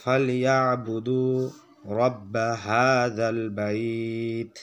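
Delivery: drawn-out recitation of the verse; slow recitation. Shown as a demonstration. Teacher recites the verse for students, slow. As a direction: recite it slowly and evenly. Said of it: "তাহলে উচ্চারণ করি".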